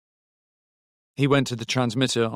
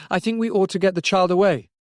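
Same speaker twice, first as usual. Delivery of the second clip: higher-pitched, insistent character voice; raised, pressing voice down the telephone; urgent Robbie on the phone; 8 semitones higher, 4 dB louder than usual. A narrator's reading.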